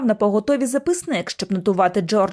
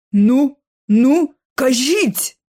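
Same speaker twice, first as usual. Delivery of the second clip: eager urging; 4 semitones higher, 5 dB louder, much slower than usual. A narrator's reading. Joplin urges.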